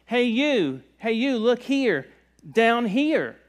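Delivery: a high hidden voice calling to get attention; mysterious voice calling. Acted. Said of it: "He goes".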